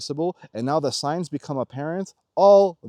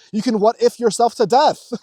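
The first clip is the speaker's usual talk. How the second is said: louder, higher, rising rant; worked-up higher rant; excited outburst; 8 semitones higher, 7 dB louder than usual. Real, not acted. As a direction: exclaim it with mounting disbelief. Ranting, pitch and level up.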